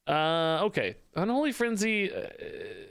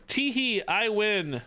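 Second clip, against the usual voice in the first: mock giggly taunt; 4 semitones higher, slower than usual. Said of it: "the company man goes".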